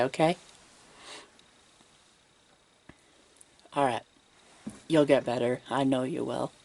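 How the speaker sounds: gentle, hushed bedside manner; whispered asmr role play. Acted.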